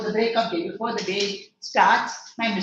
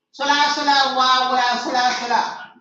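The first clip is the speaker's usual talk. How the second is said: clown shouting; 3 semitones higher, 6 dB louder than usual. Acted. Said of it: "just making noise".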